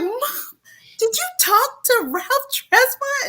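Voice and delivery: whispered high disbelief; whispered in shock; breathless whisper. Retold or imitated. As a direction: hush it like a secret. Urgent question to mom.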